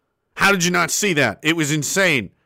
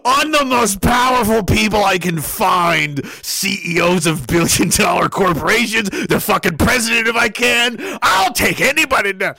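mock O'Keefe bravado; 4 semitones higher than usual. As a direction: boast like a fearless hero. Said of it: "Imagine being James O'Keefe".

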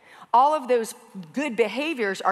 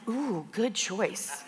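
approving barista; 7 dB quieter, much slower than usual. Retold or imitated. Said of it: "He was like".

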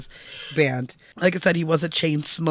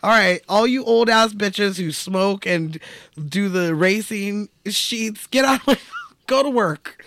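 fed-up retort; 5 semitones higher than usual. Retold or imitated. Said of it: "she's like".

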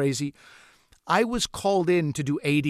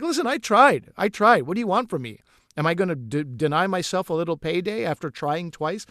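exasperated. Retold or imitated. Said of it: "it's like".

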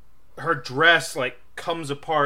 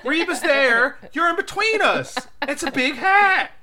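laughing explanation; 13 semitones higher, 5 dB louder than usual. Real, not acted. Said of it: "explaining with a laugh".

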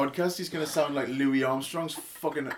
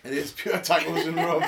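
laughing; 3 semitones higher than usual. Real, not acted. Laughing at a burp.

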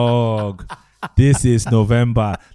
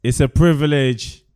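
ringmaster; 3 semitones higher, 3 dB louder than usual. Pretend. Podcast intro, showman announcement.

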